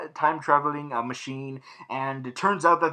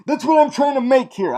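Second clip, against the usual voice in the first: high and loud, insisting; frustrated insistence; 7 semitones higher, 7 dB louder than usual. Real, not acted. Reviewer hammering home his point after slip-ups, frustrated.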